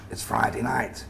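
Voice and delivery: a hint of a gruff northern boss; comedy northern accent. Creative director addressing the new grads, comedy northern accent. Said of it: "in his comedy northern accent".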